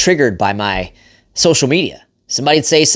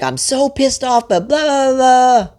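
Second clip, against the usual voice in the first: high mock-whiny angry wife; 12 semitones higher, slower than usual. Husband mimics his angry wife, high and whiny. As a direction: squeak it out like a fed-up wife mimicked. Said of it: "And she's like".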